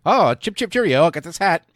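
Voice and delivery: high, loud hammed-up cheerio voice; mock posh Brit. Soldier bragging about a stolen hat, in a high mock-posh voice. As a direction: ham up a chipper English toff.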